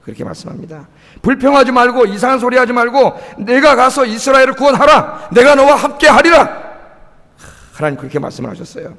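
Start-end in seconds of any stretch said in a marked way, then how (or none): 3.4-6.6 louder, ringing proclamation; preacher booming God's promise to Gideon; proclaimed promise. Acted. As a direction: announce God's promise from the pulpit.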